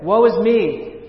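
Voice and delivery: slow, loud, high cry of woe; anguished lament. Acted. Isaiah crying out before God's throne, anguished wail. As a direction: draw out the woe like a man undone.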